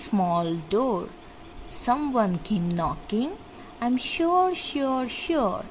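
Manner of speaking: measured, line-by-line poem reading; poem recitation. Acted. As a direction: recite the verse slowly, pausing after each line. (ধীরে ধীরে কবিতা আবৃত্তি)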